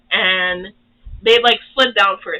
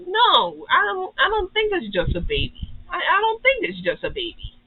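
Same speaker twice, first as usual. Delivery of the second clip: higher, imitating a nervous Cole; a lightly voiced alarmed boy insisting; alarmed protest; 10 semitones higher than usual. Cole alarmed by grown dragon.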